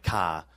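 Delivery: "car" in an Australian accent, no final R; Australian pronunciation. Shown as a demonstration. Explaining which big words slip, "car" said the Australian way. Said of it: "the big words that, like".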